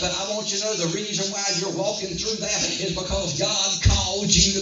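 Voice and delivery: driving, unbroken sermon delivery; forceful preaching. Real, not acted. Preacher warning the congregation hell will oppose them, forceful preaching. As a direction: preach it hard, phrase after phrase.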